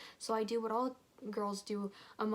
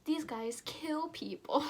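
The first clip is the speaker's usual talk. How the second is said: scared whisper; 6 semitones higher, slower than usual. Acted. Jessie warns in a whisper.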